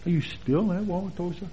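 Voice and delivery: hushed mock query stressing STILL; emphasis on STILL. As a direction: quietly mimic their doubt, leaning on "still". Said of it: "the way they emphasize still".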